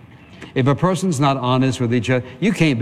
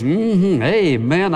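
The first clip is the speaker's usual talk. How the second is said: feigned interest; 4 semitones higher, much slower than usual. Retold or imitated. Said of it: "I said this".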